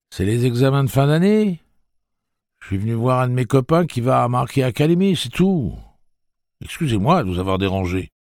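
put-on boy's voice. Jake hurrying away from the old man, quick boyish excuse. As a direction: rattle off the excuse like a nervous kid.

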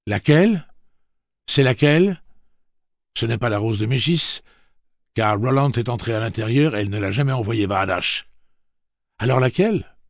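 high, loud, horrified questions. A narrator's reading. Jake horrified, demanding which one it is. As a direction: demand an answer in shock. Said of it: "une surprise horrifiée".

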